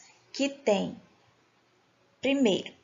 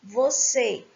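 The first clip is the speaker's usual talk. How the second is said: "Você" leaning on final CÊ; teacher's stress on CÊ in "Você"; 4 dB louder than usual. Shown as a demonstration. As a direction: stress the last syllable of "Você". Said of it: "a última sílaba é tônica".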